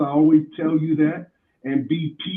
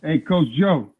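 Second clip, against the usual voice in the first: muffled bass only; 4 dB louder than usual. Real, not acted. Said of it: "you sound like you're underwater right now".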